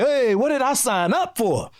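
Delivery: a touch of mock alarm, slowly; retold panic. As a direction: wonder aloud what you got into. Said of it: "you like".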